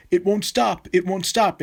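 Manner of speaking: put-on high, panicked retelling of a crying girl; imitating a panicked crying girl. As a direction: voice her rising panic, mildly. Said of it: "she was crying".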